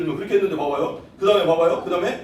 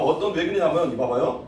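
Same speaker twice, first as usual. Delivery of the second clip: ordinary talk, nothing marked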